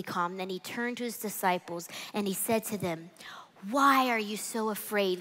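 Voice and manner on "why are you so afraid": gentle whisper; hushed and close; whispered question. Acted. Jesus gently questions disciples.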